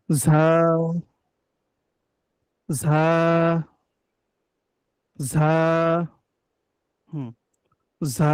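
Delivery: teacher drilling Arabic za; Arabic letter za. Shown as a demonstration. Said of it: "বলুন, ঝা".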